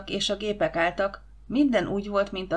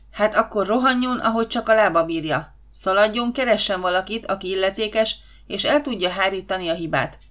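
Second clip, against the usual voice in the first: sürgető parancs; 4 dB louder than usual. Acted. Főnök sürgeti az őrt.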